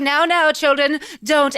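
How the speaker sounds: lightly voiced father calming children; mock-earnest parental plea; Cratchit father.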